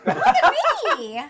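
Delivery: booming arrogant alien overlord. Acted. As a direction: proclaim yourself its new master. Player claims mastery of the homunculus.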